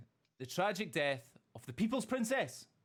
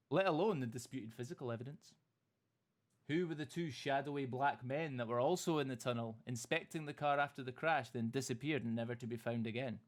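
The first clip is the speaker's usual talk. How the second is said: dramatic documentary narration. Acted. Host opens his Diana conspiracy story with dramatic questions.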